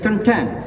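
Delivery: "contain" stressed on "tain"; second-syllable stress. Shown as a demonstration. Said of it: "also stressed with the second syllable".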